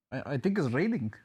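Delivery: put-on a weak stab at a Russian accent; lightly put-on Russian accent; half-hearted Russian accent; bad Russian accent. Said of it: "That's such a bad Russian accent".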